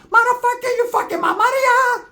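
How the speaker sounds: high, put-on accented yell; mock angry Asian vendor. The vendor whose sale got ruined rages at the gang in a high mock-accent yell. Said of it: "So now the Asians are".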